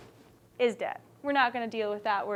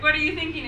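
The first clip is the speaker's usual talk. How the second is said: higher-pitched questioning delivery; inquiring; 4 semitones higher, much faster than usual. Shown as a demonstration. Teacher acts out Sam for the class, inquiring. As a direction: ask it as an inquiry. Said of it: "inquired Sam".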